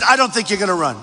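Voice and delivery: the TV boss's doubt, lightly voiced; quoting Steve. Rally speaker quoting the network boss, lightly voiced doubt. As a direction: say it as his boss dismissing him. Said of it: "He said".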